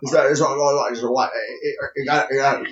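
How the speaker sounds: stammering, mumbled rock-star impression; Jimmy Stewart stutter sliding into a British rocker; a famous rock singer. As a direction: stutter and stumble over every word. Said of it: "You sound like Ozzy".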